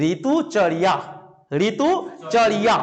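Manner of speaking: slow careful model. Shown as a demonstration. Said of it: "তোমরা যদি উচ্চারণ করো".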